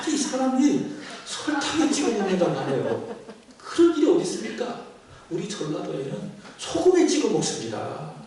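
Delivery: indignant wife. Retold or imitated. Wife protesting to the pastor about the husband, indignant and laughing. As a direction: play up the wife's outrage.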